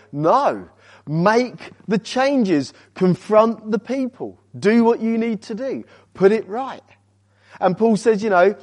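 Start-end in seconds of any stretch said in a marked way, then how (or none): 0.1-6.8 firm command. Acted. Answers the objection as Paul.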